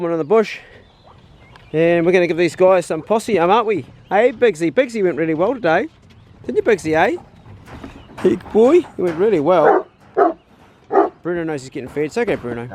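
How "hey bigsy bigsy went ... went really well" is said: high, sing-song praise for the dog; higher sweet talk to a hunting dog; pet talk. Real, not acted. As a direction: coo at a good dog. Praising the dogs after hunt.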